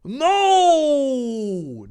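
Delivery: high, loud no; yelling. Acted. Dave yelling at the monster in John's body, loud and high. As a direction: cry it out in alarm. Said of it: "Dave yelled".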